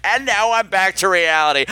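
laughing, deflated irony; wry. Real, not acted. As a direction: undercut the moment with a wry laugh. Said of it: "the cat just let out the stinkiest turd".

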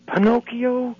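high, delighted punchline cry; the punchline, sung out high; joyful recognition. Retold or imitated. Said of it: "the little old man goes".

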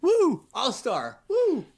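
high-pitched mock whoops, held back by a cold; a weak little woo for an all-star; half-hearted cheer. Cheering the all-star news with a cold, a feeble mock woo. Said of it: "the least emphatic woo possible".

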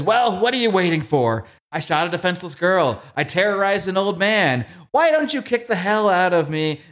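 a hint of the Joker daring Batman to hit him; Joker taunt. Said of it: "He says".

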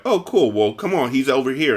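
put-on sweeten it up to lure the kid; fake friendly kidnapper. Kidnapper luring the boy to his car, fake cheer.

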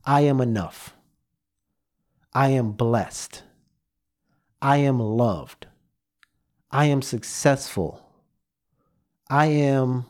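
slow, deliberate affirmations with long pauses. Shown as a demonstration. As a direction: speak each one slowly to yourself in the mirror. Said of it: "so say it with me".

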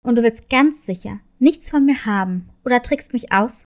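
low, wary wolf voice; a distrustful wolf probing; suspicious wolf. Acted. Suspicious wolf questions cat.

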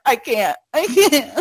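choked-up, rising imitation of crying; mock tearful. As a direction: plead it as if overcome by tears. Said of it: "I cry".

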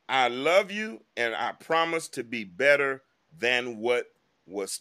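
slow, dwelling on each phrase; slow second reading of a sweet caption. Shown as a demonstration. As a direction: read it again slowly, savoring it. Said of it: "I'ma read it again".

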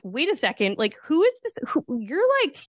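a husband puzzled by his changed wife; mock bewildered husband. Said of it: "Nick was like".

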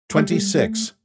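an alien friend scolding, word by word; Rocky alien voice. Acted. Rocky speaks.

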